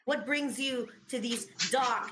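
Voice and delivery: in-character greeting. Acted. Player voicing character to bullywug.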